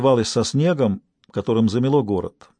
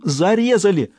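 higher, horrified outcry; horrified cry; 8 semitones higher than usual. Acted. Stas crying out to the detective that she was stabbed. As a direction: cry it out in horror. Panicked caller.

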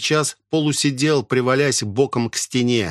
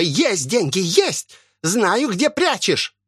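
much higher, slow near the end, crone screeching; straining shriek; 9 semitones higher, slower than usual. Acted. Old woman screaming at Асами that she hides money. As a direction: tear your throat like a starving hag. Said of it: "надрывалась старуха".

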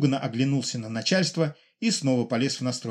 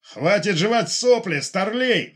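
high, loud, slow enraged shout; furious roar; 7 semitones higher, 5 dB louder, slower than usual. Acted. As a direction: roar at the lieutenant in rage. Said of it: "в ярости взревел Фомченко". (Фомченко в ярости ревёт на старлея)

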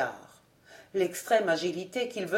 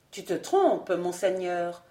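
gentle and melancholy; 2 semitones lower than usual. Acted. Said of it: "dit-il d'une voix douce et mélancolique".

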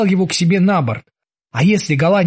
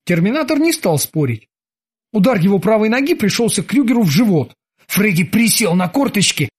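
usual speaking voice

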